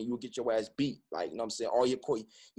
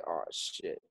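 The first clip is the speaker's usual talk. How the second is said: much lower and softer, caught out; dismayed realization; 9 semitones lower, 9 dB quieter than usual. Retold or imitated. Son seeing his mother cry, soft dismayed murmur. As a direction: let it drop as the guilt lands.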